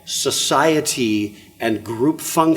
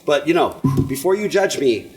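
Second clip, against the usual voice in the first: higher, defensive mock parent voice; 4 semitones higher than usual. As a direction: whine it like an excuse. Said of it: "what's the insinuation".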